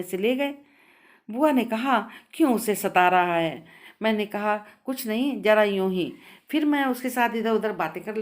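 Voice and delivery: measured read-aloud storytelling with lightly voiced dialogue; story narration. A narrator's reading. Narrator reads the story of the missing पाजेब to listeners, story narration.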